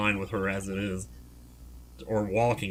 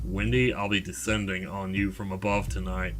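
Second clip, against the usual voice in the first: note reading. Acted. Reads stalker's note, first take.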